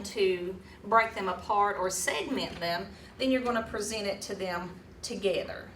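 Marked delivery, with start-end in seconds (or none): none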